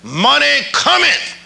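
slow, drawn-out cometh rising high; reverent slow proclamation. Retold or imitated. Preacher reliving the car moment, slow and awed. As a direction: savour each word like a revelation. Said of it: "I'm gonna say these words again".

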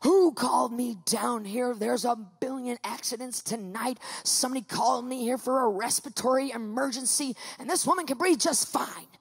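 retold huff, punching the first word; mad surgeon. Surgeon called down for an emergency, mock mad. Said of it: "He gets mad".

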